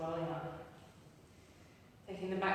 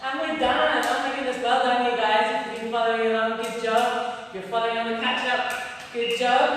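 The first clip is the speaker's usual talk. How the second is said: excited praise; 7 dB louder than usual. Real, not acted. Celebrating end of workout.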